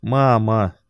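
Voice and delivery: put-on whiny little girl calling mum; drawn-out whining call. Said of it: "ноющим голосом повторила Юля".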